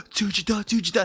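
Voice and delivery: mock amazed little girl; imitated schoolgirl. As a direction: mimic a girl's astonished whisper-free outburst. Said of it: "And then she's like".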